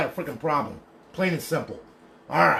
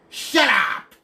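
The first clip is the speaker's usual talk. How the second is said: shouted shut up; 8 semitones higher, 6 dB louder than usual. Real, not acted. Ranting at people spreading rumours.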